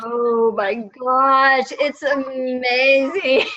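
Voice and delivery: slow, drawn-out gush. Real, not acted. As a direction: stretch it out, delighted. Gushing about auctions.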